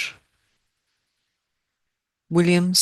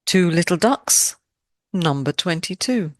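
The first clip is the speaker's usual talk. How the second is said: sing-song number call; bingo caller; 2 semitones higher than usual. Acted. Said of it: "I do feel a bit like a bingo caller".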